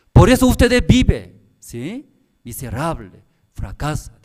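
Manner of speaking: high, loud rebuke of the pastor; scolding shout. Retold or imitated. Pastor rebuking the seminarian, loud and high. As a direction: scold the student as a failure.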